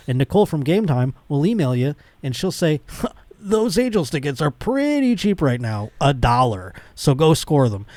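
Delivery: upbeat podcast ad read. Acted. Host reading a sponsor spot to listeners, upbeat ad read.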